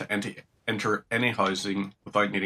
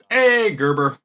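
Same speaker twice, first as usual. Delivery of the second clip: cheery greeting; 8 semitones higher, 6 dB louder, slower than usual. Real, not acted. Greeting a character.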